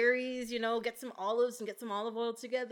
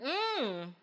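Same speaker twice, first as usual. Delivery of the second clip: short excited hum, pitch rising; a little squeal of delight; 2 semitones higher than usual. Real, not acted. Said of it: "You made an excited noise".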